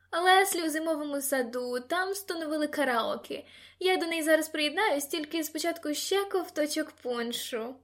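put-on high, lively party-girl voice; lightly voiced excitable girl; tipsy Sara, chatty.

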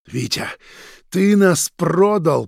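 loud, slow bitter cry; repeated accusation. A narrator's reading. Roman repeating that Vitya sold them out, bitter. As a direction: say it again, harder. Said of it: "повторил Роман".

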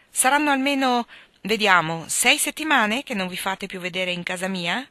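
put-on a vicar scolding a young man he hasn't seen lately; stern exclamation. Reverend scolds the absent young man, stern exclamation. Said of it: "esclamò battendo col bastone".

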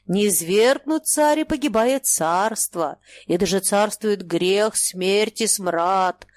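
slow booming chant of a holy fool; droning prophecy. Acted. Holy fool prophesies doom to Bulychov, booming slowly. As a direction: drone each line like a church bell. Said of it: "Гудит".

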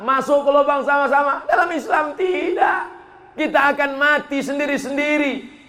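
high, insistent sermon delivery; fervent preaching. Acted. Preacher telling the congregation each dies alone, fervent preaching.

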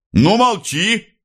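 high, slow barked "молчи"; officer's order. A narrator's reading. Officer silencing Maria, slow and commanding. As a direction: snap her silent. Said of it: "приказывал офицер".

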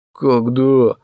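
put-on whiny drunk asking back, a touch of tears; weepy, slurring question; mildly tearful drunk whine. A narrator's reading. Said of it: "плаксиво переспросил Эрнест".

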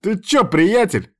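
high, slow, sing-song friendly yell; hollering at his buddy; loud hammy greeting. A narrator's reading. Yuchi grabbing his friend from behind, hammy holler. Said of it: "голосил тот".

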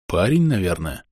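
soft, low whispered reply; whispering. Acted. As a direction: hush it, barely voiced. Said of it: "ответил я тоже шёпотом".

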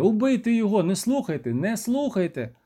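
high urgent yell, Не слухайте repeated; desperate shouting. A narrator's reading. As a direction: keep yelling at the soldiers to stop. Герой продовжує кричати. (розпачливий крик)

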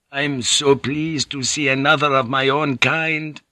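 put-on a frail old peasant priest, glad and eager; thick sibilant peasant voice. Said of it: "his peasant voice thick and sibilant".

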